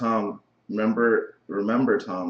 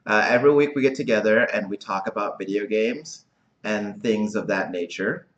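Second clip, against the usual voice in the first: exaggerated cartoon intonation; 3 dB louder than usual. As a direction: overdo the welcome like a cartoon host. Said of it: "Why are you talking like that?".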